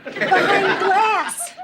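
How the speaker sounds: high, slow, drawn-out outrage; wife cursing the guards; outraged lament. Acted. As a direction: wail then spit out the insult. Wife outraged at husband behind glass.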